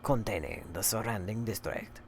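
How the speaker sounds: soft, measured put-on reading voice; hushed mock-formal letter reading; letter read aloud. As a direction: read the letter out in character, fairly low-key.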